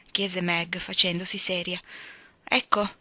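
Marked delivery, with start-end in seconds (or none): 2.4-2.9 put-on lightly raised, prim little girl; hint of a pompous schoolgirl; voiced Amy. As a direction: show off a big word proudly. Narrator voicing Amy.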